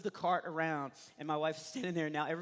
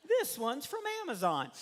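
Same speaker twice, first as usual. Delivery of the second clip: mock announcement; 8 semitones higher, 3 dB louder than usual. Presenting a new baby from a human Pez dispenser, mock-announcing. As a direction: stretch it out high for the joke.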